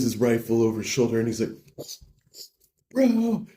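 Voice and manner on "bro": high-pitched drawn-out cry; mock desperate call. Bro dashes through woods to his friend, calling desperately. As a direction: call out for your buddy. Dashing to rescue injured friend.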